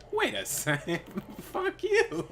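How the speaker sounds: light laughing mock curse; laughing retelling. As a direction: replay the moment while cracking up. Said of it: "it was so funny".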